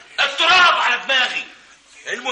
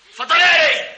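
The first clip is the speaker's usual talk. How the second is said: louder, higher command to read; اتفضلي اقري barked louder and higher; insistent louder order; 5 semitones higher, 3 dB louder than usual. Acted. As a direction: push her to read it, raising the voice.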